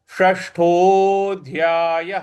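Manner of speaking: षष्ठोऽध्यायः with tongue curled back; retroflex ष. Shown as a demonstration. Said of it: "जीभ को रोल करेंगे और मूर्ध्वा पे लगाएंगे". (षष्ठोऽध्यायः मूर्धन्य ष से)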